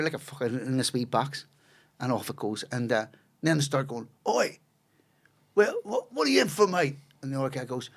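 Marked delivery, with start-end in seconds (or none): 4.3-7.0 high-pitched cellmate hollering a question; prisoner calling out. Retold or imitated. Prisoner asking the next cell what he's in for, calling out. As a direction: imitate an inmate calling down the row, voice well up.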